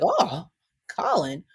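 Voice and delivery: swooning sigh. Retold or imitated. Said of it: "It's like".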